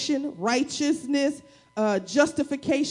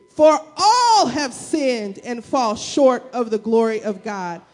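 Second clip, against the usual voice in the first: slow, louder, forceful reading; read like we mad; 4 dB louder, slower than usual. Shown as a demonstration. Pastor to congregation, reading scripture slow and louder like mad. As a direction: hammer each phrase like you mean it. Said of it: "read it like we mad".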